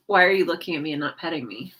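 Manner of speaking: a lightly voiced grumpy cat; voicing the cat. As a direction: rattle off the cat's grumpy demand. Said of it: "She's like".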